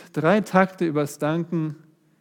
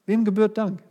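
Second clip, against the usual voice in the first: "Wem gebührt Dank?" again, pitched higher with a punched "Wem"; raised repeat; 5 semitones higher than usual. Shown as a demonstration. Preacher pressing the question on the congregation, higher and urgent. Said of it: "repeats the question".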